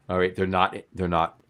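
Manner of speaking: talking through hiccups; hiccuping. Real, not acted. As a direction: hiccups breaking the words. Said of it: "I can't stop these hiccups".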